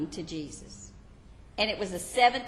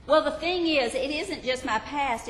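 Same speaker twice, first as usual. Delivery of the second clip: anxious confessor; 6 semitones higher, 4 dB louder than usual. Acted. Believer pleads.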